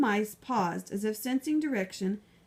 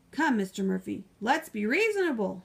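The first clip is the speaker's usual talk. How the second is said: mild shout; 3 dB louder than usual. Acted. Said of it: "shouted the mayor".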